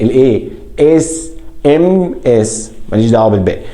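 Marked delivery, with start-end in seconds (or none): 0.8-2.7 اس ام اس slow and higher, leaning on the first "e"; opening vowel shown. Shown as a demonstration. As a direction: spell out اس ام اس with a long opening vowel. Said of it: "أنا بنطق ال A".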